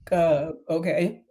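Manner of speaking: slow, unsure "uh, okay"; hesitant okay. Retold or imitated. Woman taking a call at eight thirty at night, hesitant. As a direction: drag it out, mildly reluctant. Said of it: "She was kinda like".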